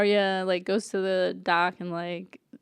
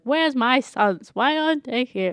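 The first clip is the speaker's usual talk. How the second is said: put-on greedy old lord; 5 semitones higher, 4 dB louder than usual. Walder Frey demanding pie from servant, mild mock gruffness. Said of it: "he's like".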